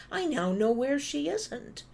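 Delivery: dry sarcastic quip. Real, not acted. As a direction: let the irony land high. Sarcastic punchline about the call.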